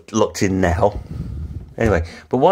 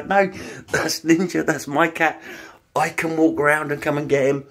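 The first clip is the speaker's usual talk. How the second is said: much higher, urgent call; shouting to neighbours; 7 semitones higher than usual. Retold or imitated. Owner calling to neighbours not to chase her cat, high shout. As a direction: call out so they stop chasing him. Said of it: "I'm shouting to Michelle and Di".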